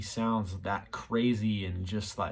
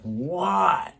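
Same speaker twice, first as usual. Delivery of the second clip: high, rising-then-falling puzzled creature call; imitating a Sasquatch calling back a question; 8 semitones higher, much slower than usual. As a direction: call out like a confused beast asking what. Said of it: "sounded like the Sasquatch was like".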